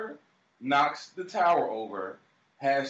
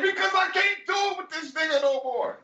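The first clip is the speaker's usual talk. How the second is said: hammed-up fed-up yell; exasperated shout. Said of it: "He was like".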